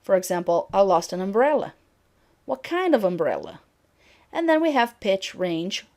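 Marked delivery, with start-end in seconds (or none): 0.7-1.7 prominence on "umbrella"; sentence focus. Shown as a demonstration. Teacher giving an example of prominence, stressing "umbrella". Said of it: "Prominence, which is the focus of the sentence". 2.4-3.6 prominence on "kind"; sentence focus. Shown as a demonstration. Teacher giving an example of prominence, stressing "kind". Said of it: "Prominence, which is the focus of the sentence".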